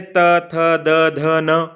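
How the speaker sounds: त थ द ध न sounded clearly; teacher demonstrates dental letters; dental letter drill. Shown as a demonstration. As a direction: model each dental letter for the class. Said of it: "आप उच्चारण करके देखें".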